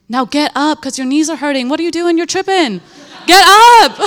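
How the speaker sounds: God lovingly chiding a grateful daughter to stand, building to a laughing shout; playful command building to a laughing shout. Retold or imitated. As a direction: tease her off her knees, ending in a laugh. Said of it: "He says".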